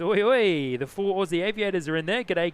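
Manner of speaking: a bright, excited "Oi, oi" shouted to friends; excited greeting. Real, not acted. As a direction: hail your mates as they arrive in chat. Greeting viewers arriving in chat.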